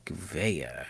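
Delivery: muffled, as if hand over mouth. Real, not acted. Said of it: "you muffled again".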